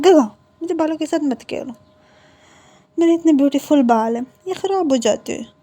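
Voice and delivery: put-on a spoiled kid protecting her pretty hair; little sister scolding her brother, pouty and high; fussy little girl.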